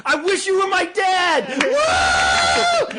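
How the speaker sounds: very high mock teen shriek; imitated squealing adoration; screaming fangirl. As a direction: shout it like a girl at a concert, then whoop. One girl in screaming crowd.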